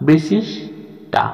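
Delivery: "বিশেষ" lifted high, a pause, then "টা" alone; teacher splitting "বিশেষ টা" in two; separated syllables. Shown as a demonstration. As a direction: break off "টা" from "বিশেষ" with a clear gap. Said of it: "আলাদা করে".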